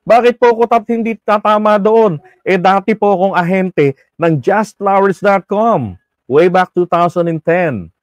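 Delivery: lightly voiced female listener, eager to agree; imitating Eva Punsalan. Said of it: "Sabi ni Eva Punsalan". (magaan na paggaya sa boses ng tagapakinig)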